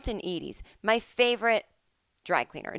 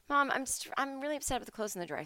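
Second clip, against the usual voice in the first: throwaway; 6 semitones higher, 9 dB quieter, faster than usual. Shown as a demonstration. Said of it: "Throw it away".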